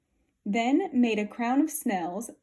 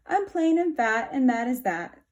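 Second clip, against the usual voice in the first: squeaky. Acted. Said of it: "the mole squeaked".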